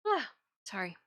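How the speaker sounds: talking through a yawn. Real, not acted. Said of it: "Big yawn".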